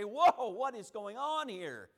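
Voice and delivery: loud, drawn-out astonished question; acted alarm, slow and loud; startled amazement. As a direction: play a bewildered onlooker calling out. Voicing startled onlookers at sudden darkness.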